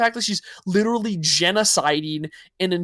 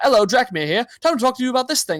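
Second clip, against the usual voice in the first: faint, half-English put-on accent, pitched up; 5 semitones higher, 3 dB louder than usual. Recalling how he introduced himself on his channel with a bad mic, vaguely English accent. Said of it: "I sounded like vaguely English".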